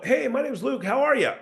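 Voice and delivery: high, lilting "How are ya?"; unsure upward sales greeting, voice riding high; upward tonality. Shown as a demonstration. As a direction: pitch "Hey, my name's Luke" up high. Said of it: "speaking in upward tonalities".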